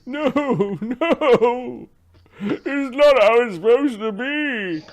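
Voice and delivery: high, loud wail of a panicked fighter; yelling in protest. Acted. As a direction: cry out to a hostile crowd. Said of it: "He's yelling towards the crowd".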